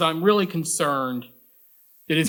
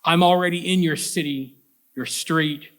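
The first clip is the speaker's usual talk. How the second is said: measured, emphatic poem recital with deliberate phrase breaks; poetry reading; 3 semitones higher than usual. Acted. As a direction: read the poem out to an audience, stressing key images. Reads second poem aloud.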